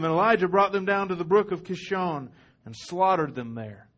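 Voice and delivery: ordinary delivery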